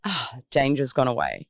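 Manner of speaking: relieved sigh. Acted. Mind hearing from a deep breath that danger has passed, relieved sigh. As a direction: let out a soft sigh of relief.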